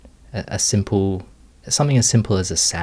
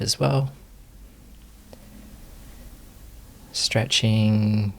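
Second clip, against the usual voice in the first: calm, unhurried meditation guiding with long pauses; guided meditation. Real, not acted. Teacher leading students into meditation posture, unhurried guided meditation. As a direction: ease them gently through each movement, leaving space. Leads the settling movement practice.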